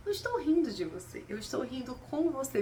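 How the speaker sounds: lightly voiced partner brushing it off; mock partner. Mimicking partner's excuse.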